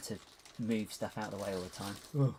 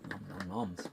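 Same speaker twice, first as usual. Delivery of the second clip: eating while talking; nom nom chomping; 3 semitones lower than usual. Real, not acted. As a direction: chomp through a mouthful. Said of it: "Sorry about that".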